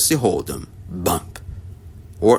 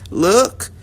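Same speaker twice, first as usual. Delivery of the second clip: shout; 7 semitones higher than usual. A narrator's reading. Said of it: "they all shouted".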